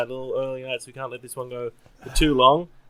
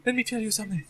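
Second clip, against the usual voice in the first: fake African accent; 8 semitones higher, 11 dB quieter, faster than usual. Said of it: "a white guy doing an American voice".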